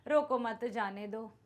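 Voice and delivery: रोको मत जाने दो run together slowly, evenly; no pause. Shown as a demonstration. Teacher showing a sentence without punctuation, read evenly. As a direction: read रोको मत जाने दो as one unbroken phrase. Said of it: "कुछ भी पढ़ सकते हैं".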